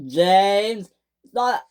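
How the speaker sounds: high, loud chorus of screams; three engines screaming to defend James, high and loud. Acted. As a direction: scream it together to the boss. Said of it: "screamed the other three engines".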